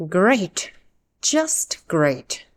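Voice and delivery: unhappy, insincere "great"; two separate, unimpressed beats like a sarcastic clap. Acted. Teacher acts out stepping in a puddle in socks, sarcastic. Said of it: "It's like a slow, sarcastic clap".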